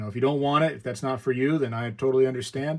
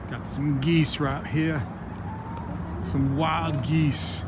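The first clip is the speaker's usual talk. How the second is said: silly clown; 4 semitones higher, much slower than usual. Acted. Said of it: "silly goose commentary".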